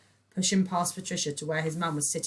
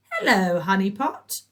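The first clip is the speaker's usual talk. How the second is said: chirping; 4 semitones higher, 10 dB louder than usual. A narrator's reading. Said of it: "chirped Patricia Porshly Plum".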